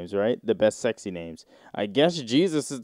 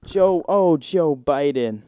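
louder, higher hammed-up moan of the name; mock moan; 4 semitones higher, 4 dB louder, slower than usual. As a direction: keep moaning the name. Moaning names read from sex thread.

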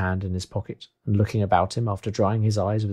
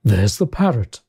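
a touch of delighted exclamation; excited cry; 4 dB louder, slower than usual. Acted. Scrooge spots the parrot from his old book, crying out. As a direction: call out in sudden recognition. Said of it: "cried Scrooge".

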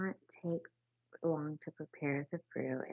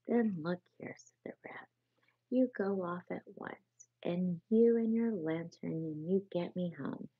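louder, firm instructions; rat giving orders; 2 semitones higher, 5 dB louder than usual. Acted. Bossy rat. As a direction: rat sending the field mouse shopping, firm.

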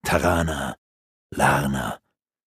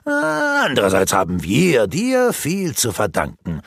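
a hint of a sneering villain, mocking; mild mock sneer of a wizard; lightly voiced taunting sorcerer; 2 semitones lower than usual. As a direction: tease him with scorn, barely changing voice. Rurak taunts Granok.

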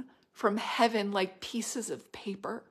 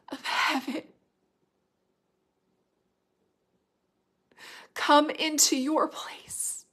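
hushed prophetic whisper; 6 semitones higher than usual. Acted. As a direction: lean in and whisper God's invitation.

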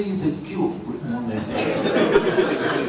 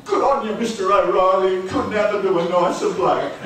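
higher-pitched, effusive mates' praise; hearty congratulations; 4 semitones higher, faster than usual. Acted. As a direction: act out back-slapping congratulations. Men congratulate the supposed winner.

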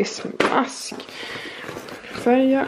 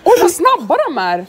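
loud, high, drawn-out shout; calling out; 9 semitones higher, 7 dB louder, slower than usual. Real, not acted. Vlogger calls out to friends running past outside.

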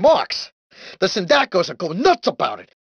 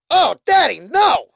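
alarmed cry; 5 semitones higher, 3 dB louder than usual. Acted. Cries out in alarm during ride.

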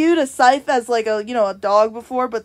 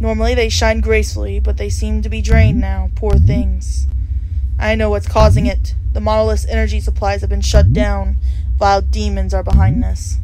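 lightly voiced, slightly lower solemn reaper; a calm grim reaper explaining the situation; reaper NPC voice; 4 semitones lower than usual. Reads reaper NPC dialogue aloud.

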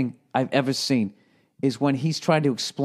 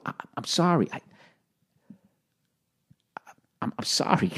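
meek apology; 5 semitones higher, 5 dB quieter than usual. Retold or imitated. Acting out meek repeated apology.

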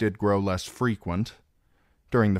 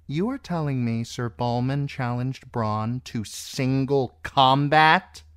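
raised pitch climbing to a question; incredulous; 7 semitones higher, 4 dB louder than usual. A narrator's reading. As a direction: repeat the news in exasperated disbelief. Queen incredulous at the foolish challenge.

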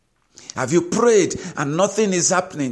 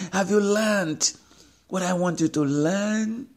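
voice of God; 5 semitones higher than usual. Retold or imitated. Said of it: "And God is saying".

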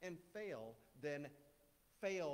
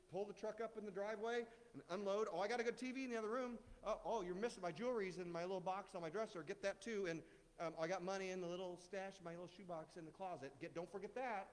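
mock surrender to the thief; 4 semitones higher than usual. Preacher mocks giving up dreams to the enemy, hammed-up cheer. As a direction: hand it all over like an eager host. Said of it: "We can all be laughing".

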